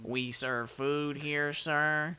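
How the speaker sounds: slow droning cartoon voice; Squidward-like voice. Doing SpongeBob voices, slow drone.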